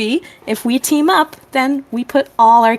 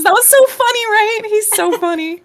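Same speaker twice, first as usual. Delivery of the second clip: higher, sweetly gushing voice; sweet praise; 9 semitones higher than usual. Acted. Beast smiling at Juno about Cecil, high sweet voice. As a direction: gush sweetly to win him over. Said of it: "smiles at Juno and says".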